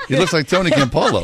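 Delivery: said through a laugh; chuckling while repeating the joke. Real, not acted.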